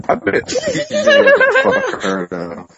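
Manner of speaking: dragging, stretched glitchy audio; slowed-down audio. Real, not acted. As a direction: voice smeared by a bad connection. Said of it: "Your voice is really going slow again".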